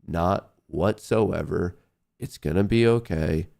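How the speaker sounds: mock guided meditation; calming self-talk. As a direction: talk yourself down gently.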